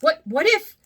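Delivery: breathless, worried rush of words; a scared puppet fearing for his cat; frightened gasp. Acted. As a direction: fear spilling out in a stammer. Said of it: "Pinocchio gasped".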